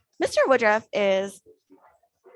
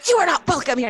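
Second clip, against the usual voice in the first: loud, higher-pitched retold outburst; 6 semitones higher, 5 dB louder, faster than usual. Man interrupts her conversation to throw her out, very loud. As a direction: mimic an angry man barging in loudly. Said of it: "speaking in a very loud voice".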